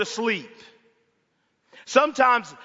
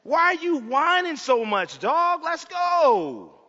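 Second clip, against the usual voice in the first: mocking impatience; 5 semitones higher, slower than usual. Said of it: "read the Psalms and think".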